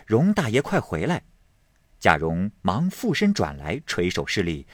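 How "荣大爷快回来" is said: servants calling. A narrator's reading. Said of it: "外面几个人接声说".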